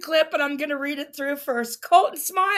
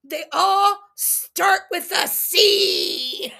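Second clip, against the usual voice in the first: pitched-up, drawn-out accusing list of C words; mock accusation; slower than usual. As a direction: sneer out each C word slowly, like a gotcha. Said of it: "Michael replies".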